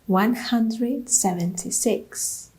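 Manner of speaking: "One hundred seventy-six" said slowly, stress on "hundred", rising at the end; slow disbelieving repeat. Shown as a demonstration. A runner repeats her meagre charity total, slow and deflated. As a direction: let the number sink in, deflated. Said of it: "one hundred seventy-six pounds for charity".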